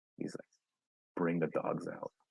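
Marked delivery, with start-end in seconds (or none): 1.2-2.1 hushed, breathy, very quiet whisper. Speaker acts out what their dad told them, very quiet. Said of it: "he told me very quietly".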